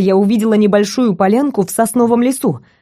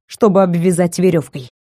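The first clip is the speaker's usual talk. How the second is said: ordinary delivery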